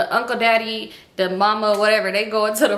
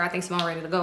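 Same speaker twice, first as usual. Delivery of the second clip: soft, low-key relayed line; talking low; 3 semitones lower, 6 dB quieter, much faster than usual. Retold or imitated. Joe tells them someone is ready to go, low. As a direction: keep it down, under your usual voice. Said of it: "he was talking low".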